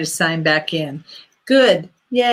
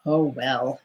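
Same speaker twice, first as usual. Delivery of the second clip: "Oh, well." dropped much lower and softer, goofy; 7 semitones lower, 6 dB quieter than usual. Shown as a demonstration. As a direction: drop "Oh, well." low and soft as a silly put-on voice. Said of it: "Still being goofy".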